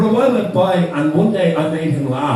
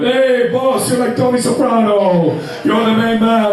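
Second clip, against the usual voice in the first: higher, eager phone flattery; 6 semitones higher, slower than usual. Retold or imitated. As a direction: suck up to the boss over the phone. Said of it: "on the phone going".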